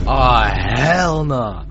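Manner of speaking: loud, high, drawn-out outburst; loud refusal. Acted. Reacting to Ben's confession in the pool, loudly appalled. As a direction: stretch it out in appalled disbelief.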